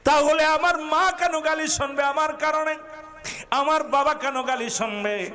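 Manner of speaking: high, melodic protest to God; anguished plea. Acted. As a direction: cry out the hurt in a preacher's chant. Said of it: "নবীজি কান্দার বলে". (চড়া সুরে আকুল ফরিয়াদ)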